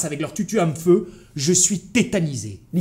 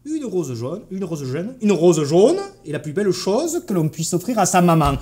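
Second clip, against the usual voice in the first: repeated drill in Parisian French; looped Parisian accent; 3 semitones higher, 3 dB louder than usual. Acted. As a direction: practise a pointed Parisian accent, building up. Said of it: "parler pointu en boucle".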